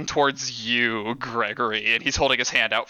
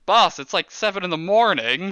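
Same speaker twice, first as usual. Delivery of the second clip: protesting goon; 5 semitones higher than usual. Acted. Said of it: "goon protests".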